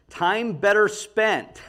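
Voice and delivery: "time better spent" said slowly, word by word; teacher slowing down to stamp "time better spent"; slow emphasis. Shown as a demonstration. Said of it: "new concept".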